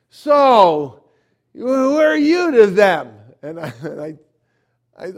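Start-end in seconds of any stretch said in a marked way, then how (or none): 0.1-3.1 loud, high, drawn-out shouted demand; agitated stranger's booming confrontation; aggressive challenge. Retold or imitated. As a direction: shout it like a man picking a fight. Agitated stranger confronts him, quoted.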